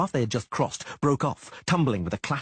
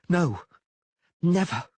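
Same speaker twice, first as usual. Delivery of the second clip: firm loud refusal; 8 semitones higher, 5 dB louder, slower than usual. A narrator's reading. Geralt refusing loudly.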